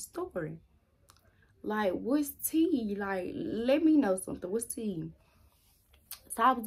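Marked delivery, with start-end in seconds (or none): 1.6-5.1 slow exasperated demand. Real, not acted. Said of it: "I'm just mad".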